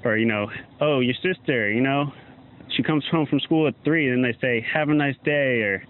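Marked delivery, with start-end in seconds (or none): 0.8-4.1 movie villain threat. Retold or imitated. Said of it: "something a villain would say in a movie". 4.7-5.6 villain farewell. Retold or imitated. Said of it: "something a villain would say in a movie".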